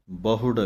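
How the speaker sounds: ਬਹੁੜ said with the ਹ and the ਔਂਕੜ (u) both clear; teacher's model word; careful pronunciation. Shown as a demonstration. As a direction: spell out ਬਹੁੜ syllable by syllable. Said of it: "ਹਾਹੇ ਔਂਕੜ ਹੈ".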